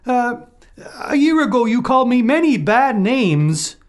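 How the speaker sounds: high, loud accusing wolf; the wolf trumping up a charge, loud and high. A narrator's reading.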